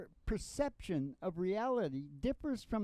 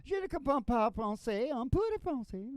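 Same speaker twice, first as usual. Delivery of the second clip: French; 4 semitones higher than usual. Retold or imitated. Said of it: "they didn't believe that I wasn't French".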